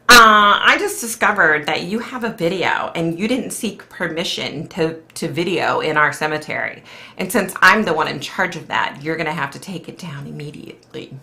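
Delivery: lightly mocking a stern cemetery official; imitating the lady. Vlogger mocking the cemetery lady's email, lightly voiced. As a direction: read her demand, a touch of a prissy official. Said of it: "this is how she sounds in my head".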